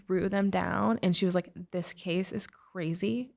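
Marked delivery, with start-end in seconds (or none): 1.7-3.3 whisper. Retold or imitated. Advocate throws down the file.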